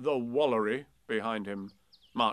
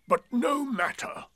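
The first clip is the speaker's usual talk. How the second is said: loud whisper; 13 semitones higher, 6 dB louder than usual. A narrator's reading. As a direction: whisper it loudly so all can hear. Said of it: "he said in a loud whisper".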